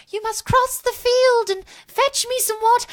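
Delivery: high, loud quest-giver voice; video game character. Shown as a demonstration. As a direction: deliver it like an old-school game character. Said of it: "in video game type of characters".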